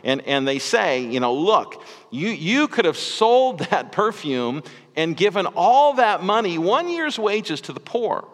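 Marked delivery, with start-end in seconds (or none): 1.3-8.3 dinner guests scolding Mary, hammed-up indignation; mock scolding. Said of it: "they scolded her".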